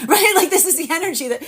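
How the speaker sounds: high laughing check-in. Real, not acted. Laughing to viewers about messes. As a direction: giggle the question.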